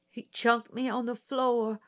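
put-on high, tense country girl testifying; nervous country girl. Mayella testifying to the prosecutor, high and nervous.

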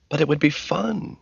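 high-pitched pleading whine; whining. A narrator's reading. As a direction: whine it in protest. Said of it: "Ginger whined".

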